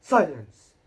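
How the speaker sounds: loud yell. A narrator's reading. Uncle Vernon yells at Harry to be silent. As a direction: bellow for silence.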